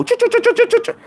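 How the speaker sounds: high mock engine sputter, chu chu chu; sputtering engine noise. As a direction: imitate a dead car engine failing to turn over. Car engine that won't start.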